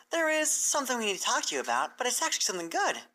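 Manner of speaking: a nervous bright mare rushing to reassure; Twilight's voice. Acted.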